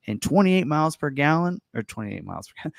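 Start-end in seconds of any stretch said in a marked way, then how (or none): 0.1-1.6 hyped announcer stating the spec. Pretend. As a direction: punch it out like a promo announcer. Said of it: "like, announcer voice".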